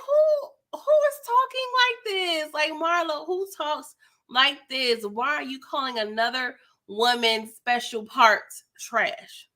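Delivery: high squealing disbelief; mock outrage. Vlogger reacting to Marlo's insult, high scandalized squeal. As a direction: screech it up in scandalized shock.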